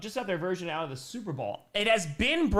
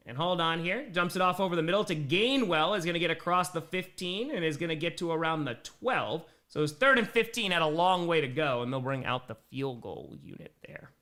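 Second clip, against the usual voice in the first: live play-by-play. Real, not acted. Streamer calling a short gain for viewers, live play-by-play. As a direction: call the catch, then wind down.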